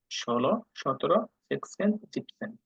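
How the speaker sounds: জেকসেন and জিপসেন said slowly and softly, German style; German pronunciation. Shown as a demonstration. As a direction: model the German number words carefully. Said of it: "different ওয়েতে উচ্চারণ করে".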